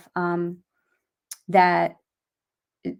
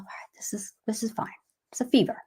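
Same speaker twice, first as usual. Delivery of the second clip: very soft talk to oneself; cool self-reassurance; 7 dB quieter, faster than usual. Retold or imitated. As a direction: keep it under the breath, acting calm. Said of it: "I was just being cool, saying to myself".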